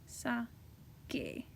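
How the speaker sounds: Sake whispered softly, falling at the end. Shown as a demonstration. Teacher whispers the corrected form Sake to the class. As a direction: breathe out Sake as a satisfied whisper. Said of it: "That's much better".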